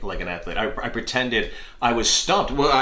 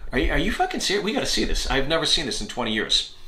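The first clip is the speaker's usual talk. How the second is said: mock pilot disbelief; 4 semitones higher, faster than usual.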